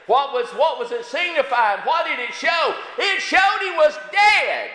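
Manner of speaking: chanting preacher; preaching at full force. Acted. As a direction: ring it out like a revival climax. Building to shout.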